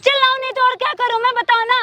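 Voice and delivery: fed-up, hurried outburst; exasperated yelling. Acted. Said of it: "अरे चिल्ला क्यों रही है?".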